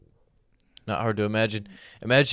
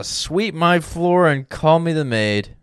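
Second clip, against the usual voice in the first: put-on wholesome 1950s kid; 5 semitones higher, slower than usual. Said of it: "That's how Mormons play".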